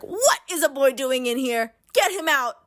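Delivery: high-pitched acted outrage; imitating an indignant order; mock indignation. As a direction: demand it like a scandalized intruder-finder. Acts character finding a boy inside.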